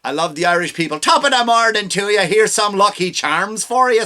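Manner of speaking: lightly put-on Irish accent; a hint of stage Irish; mock Irish accent. Imagining Kamala pandering to the Irish in a mild Irish accent. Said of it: "Like if she said".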